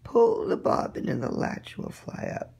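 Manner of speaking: calling from the sickbed; old woman calling through door; grandmother calling out. Acted. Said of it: "called out".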